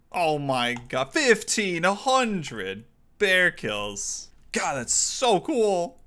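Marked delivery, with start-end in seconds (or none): 4.6-5.9 ironic, sarcastic, pitched-up gushing tone. Streaming a game, reacting to a 1,500 bear kills task, sarcastic. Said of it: "Totally not sarcastic right now".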